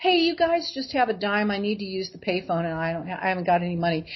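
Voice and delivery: imitating an offhand, friendly ask; flippant, jovial. Asking three boys for a dime, mildly flippant and jovial. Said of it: "very flippantly say, in a fun kind of jovial way".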